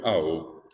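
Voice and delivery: "A, O" as one word stressed on the O; stress on final O. Shown as a demonstration. Teacher shows students where the accent falls, final O stressed in "A, O". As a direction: put the accent of "A, O" on the last vowel. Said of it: "el acento está en la O".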